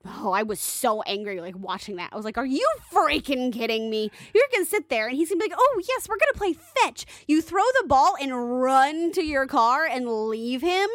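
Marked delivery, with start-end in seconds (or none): 2.4-5.6 outraged yelling at dog abandoners; angry rant. Retold or imitated. Ranting at people who abandon dogs, angry and loud. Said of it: "that made me so mad". 5.6-7.1 high eager dog; bright mock doggy voice; happy dog voice. Voicing the abandoned dog, high and eager. 7.3-10.9 outraged yelling at dog abandoners; angry rant. Retold or imitated. Ranting at people who abandon dogs, angry and loud. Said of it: "that made me so mad".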